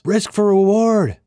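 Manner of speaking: high, slow, eerie put-on voice; surveyor's voice. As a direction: drag it out, cold and knowing. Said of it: "the surveyor responded".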